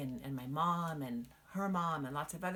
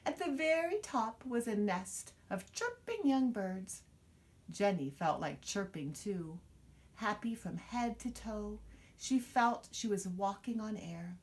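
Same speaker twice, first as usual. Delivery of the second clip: lively storybook reading; reading to children; 3 semitones higher than usual. Acted. Mother reading a picture book to her child, expressive storytelling. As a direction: read it out to little ones, full of wonder.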